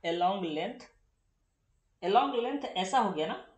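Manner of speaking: "along length" said twice with a rising tune, pushing on "along"; stressing the phrase. Shown as a demonstration. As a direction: repeat "along length" slowly and questioningly. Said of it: "ये word गलत है ना". ("along length" पर ज़ोर, सवाल जैसा उठता सुर)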